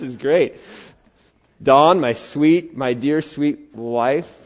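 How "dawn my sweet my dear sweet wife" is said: tender address. Real, not acted. Addressing wife fondly, slowly.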